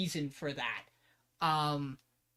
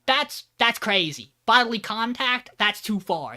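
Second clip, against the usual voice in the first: flustered protest; 4 semitones higher, 6 dB louder than usual. Retold or imitated. Tomo protesting loudly about bodily contact. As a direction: push back, scandalised. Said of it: "Tomo's like".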